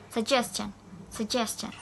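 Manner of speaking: "Suggestion" said sug-GES-tion; stress on middle syllable. Shown as a demonstration. Teacher modelling the related word, stressed "sugGEStion". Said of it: "Same with the".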